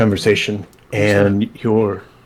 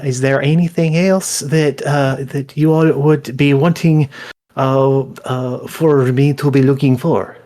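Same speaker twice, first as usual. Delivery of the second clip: Kaelin voice; 3 semitones higher than usual. Acted. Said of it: "Kaelin looks at you all".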